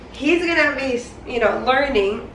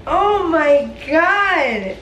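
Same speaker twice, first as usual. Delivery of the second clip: surprised; 5 semitones higher, much slower than usual. Real, not acted. Reacting to a surprise gift.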